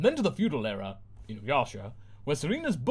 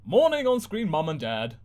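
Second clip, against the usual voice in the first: high bright TV mum greeting; screen mum voice; 4 semitones higher, 5 dB louder than usual. Acted. Mum on screen greeting her daughter, high and chirpy. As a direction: sing it like a cheery sitcom mum.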